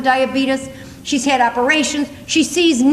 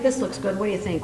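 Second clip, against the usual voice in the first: salesman; 6 semitones lower, 9 dB quieter than usual. Retold or imitated. Salesman voiced in story.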